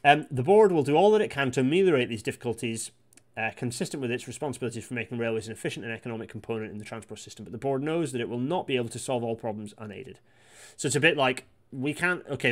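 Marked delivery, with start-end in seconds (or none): 0.3-10.2 rattling off the report fast, hardly breathing; fast reading voice. Shown as a demonstration. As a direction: read the quote at speed, barely pausing. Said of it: "I do fast voice".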